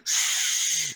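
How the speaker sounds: long unvoiced shush. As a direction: hush someone with a drawn-out shh. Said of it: "there's people saying".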